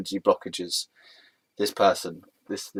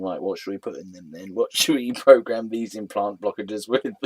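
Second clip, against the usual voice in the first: imagined programmers; 4 semitones lower than usual. Retold or imitated. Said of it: "you got the programmers going".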